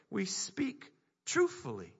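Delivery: slow breathy whisper of the key phrase. Real, not acted. Pastor drawing the congregation in, slow whisper. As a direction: hush it like a secret.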